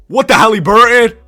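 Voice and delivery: loud, high shocked yell; shocked shout. Real, not acted. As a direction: blurt it out in disbelief. Shock at a trade offer.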